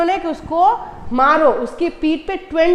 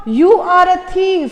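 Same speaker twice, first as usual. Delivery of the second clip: king shouting; 3 semitones higher, 5 dB louder, much slower than usual. Acted. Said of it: "king ने चिल्ला के बोला".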